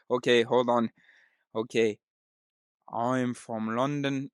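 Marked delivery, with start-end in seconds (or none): 2.9-4.3 put-on slow, botched London accent; attempted London accent. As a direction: draw out a bad London accent. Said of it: "No, fuck".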